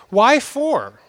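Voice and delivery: put-on "Why four?" said as a toddler says "why, for?"; toddler mispronunciation. Father copies his daughter asking "Why four?". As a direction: lightly mimic a three-year-old saying "Why four?". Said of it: "That's how she said it exactly".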